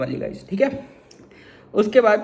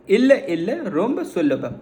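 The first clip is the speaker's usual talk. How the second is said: slow Tamil demo; slower than usual. Shown as a demonstration. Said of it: "वहाँ कैसे बोलोगे?".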